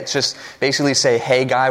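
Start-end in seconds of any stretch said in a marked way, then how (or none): 1.2-1.7 southern twang. Shown as a demonstration. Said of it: "with a southern twang".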